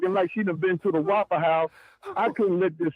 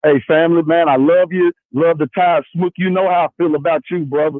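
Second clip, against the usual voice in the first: loud call-in shout; 10 dB louder than usual. Real, not acted. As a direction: shout it down the phone line to the host. Caller shouting into the phone.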